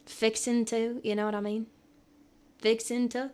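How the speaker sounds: lightly tried Southern twang; Southern accent. Shown as a demonstration. Streamer trying out Southern phrases, light Southern accent. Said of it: "I used to do a Southern accent".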